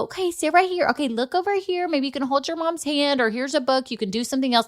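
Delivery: put-on imagined nurse guiding a little girl; sweet nurse. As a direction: talk gently to distract a nervous child. Imagined nurse distracting child.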